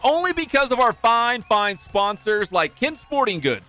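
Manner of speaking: upbeat sponsor read, punchy pitch; radio ad read. Acted. Host reading the sponsor spot, upbeat ad read. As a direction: sell the sponsor to listeners.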